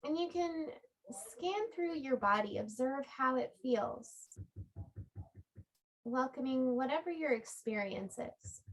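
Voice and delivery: calm yoga-teacher guidance with long pauses; unhurried body-scan meditation voice; guided relaxation. Real, not acted. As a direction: guide them gently into rest, phrase by phrase. Leads a restorative relaxation.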